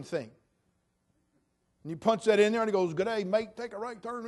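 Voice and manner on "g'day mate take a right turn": put-on Australian accent. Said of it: "it'll even do it in an accent for you".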